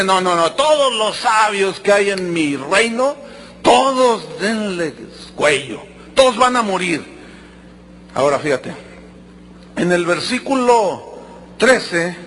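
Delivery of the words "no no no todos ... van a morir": a hint of a furious king handing down death; angry king. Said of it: "el rey se enoja y dice". (rey enojado, lento y contenido)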